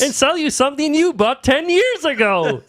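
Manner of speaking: laughing mock pitch. Joins parody, laughing.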